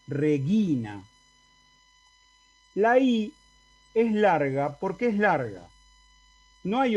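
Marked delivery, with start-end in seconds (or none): 0.1-1.0 Regina con la I acentuada y sostenida; acento en la penúltima. Shown as a demonstration. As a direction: alarga la GI de Regina. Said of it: "el acento cae allí". (Regina, con el acento en la I)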